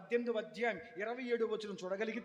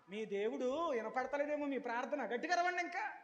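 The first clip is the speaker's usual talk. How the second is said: sarcastic dare; 3 semitones higher than usual. Retold or imitated. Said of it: "ఎటకారంగా". (వెటకారంగా)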